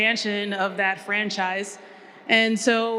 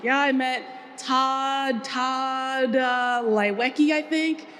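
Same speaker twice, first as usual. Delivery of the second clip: casual brother; 4 semitones higher, slower than usual. Retold or imitated. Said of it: "who's, you know, very casual".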